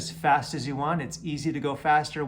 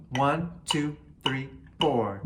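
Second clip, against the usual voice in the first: count-in; slower than usual. Shown as a demonstration. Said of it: "Here we go".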